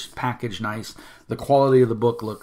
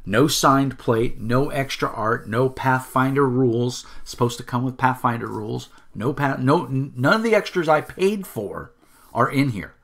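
indignant backer listing what never came; angry list; 3 semitones higher, 3 dB louder than usual. Real, not acted. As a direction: count off every broken promise, heated. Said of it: "sorry for the profanity and the angriness".

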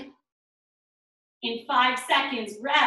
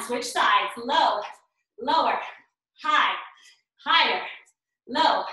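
barking gym coach. Real, not acted. Coach calling pulses.

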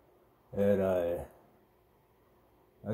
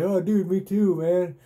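higher, louder buddy voice; coworker's voice, pitched up and loud; voicing Tony; 8 semitones higher, 5 dB louder than usual. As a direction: play the coworker cracking up in agreement. Voicing Tony laughing along.

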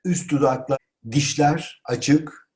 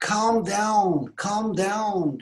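high, stretched exclamation; CALM DOWN cried out high; raised voice; 8 semitones higher, much slower than usual. Shown as a demonstration. Teacher models calming someone agitated, exclaimed. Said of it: "bunu yüksek sesle".

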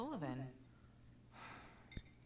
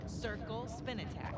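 slow coaching; 5 semitones higher, slower than usual. Acted. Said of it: "I'm coaching you".

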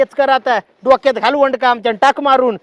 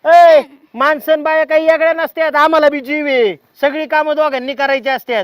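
raised, higher angry reply; heated retort; 4 semitones higher than usual. Acted. Husband retorting to wife that men and women are equal, heated. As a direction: cut her off hotly.

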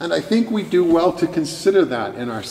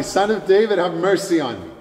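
higher-pitched imitated cry for mercy; mock shriek, raised in pitch but not loud; retold shriek; 5 semitones higher than usual. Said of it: "He shrieked ever more loudly".

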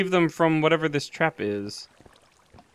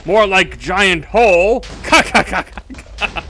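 demon voice. Acted. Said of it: "that's a terrible demon voice".

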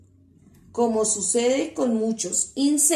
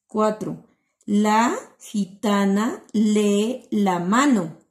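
slow, clear reading with each syllable stretched; reading aloud to children; 4 dB louder, much slower than usual. Shown as a demonstration. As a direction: read slowly so the little ones can follow. Teacher reads sentences to children.

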